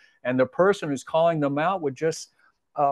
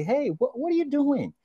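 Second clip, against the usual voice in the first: kindly; 13 semitones higher than usual. Retold or imitated. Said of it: "Very kindly".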